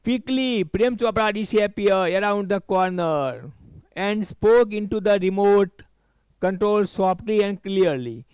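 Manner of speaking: slow, careful reading of the English line; slow reading aloud. Shown as a demonstration. Teacher reading the passage slowly to students. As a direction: read each word out slowly for the class. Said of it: "teacher reads English text slowly".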